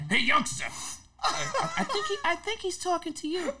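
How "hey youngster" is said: high, loud mock call of youngster; imitating Rick calling. Actor imitates Rick calling from the side, high mock call. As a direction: summon the young man like an old boss. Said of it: "you sound just alike".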